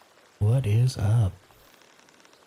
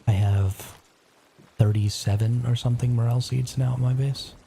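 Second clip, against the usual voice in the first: library whisper. Real, not acted. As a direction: whisper so the house stays asleep. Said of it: "I am whispering".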